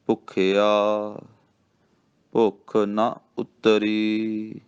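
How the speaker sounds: ਭੁੱਖਿਆ, then a clear pause, then ਭੁੱਖ ਨਾ ਉਤਰੀ slowly; slow recitation with a pause after ਭੁੱਖਿਆ. Shown as a demonstration. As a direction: hold a break after ਭੁੱਖਿਆ before going on. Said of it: "ਠਹਿਰਾਓ ਦੇਣਾ।".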